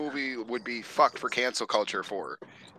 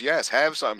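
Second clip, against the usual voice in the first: lightly acted coffee offer; quoted coffee offer; 2 semitones higher than usual. He offers Lewis coffee, lightly acted imitation. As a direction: offer it in a near-usual voice. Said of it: "and he goes".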